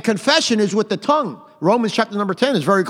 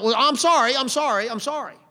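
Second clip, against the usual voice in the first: higher, glib repeated apology; mock excuse-making apology; 4 semitones higher than usual. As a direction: toss out apologies as an easy out. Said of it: "they think they always have an out".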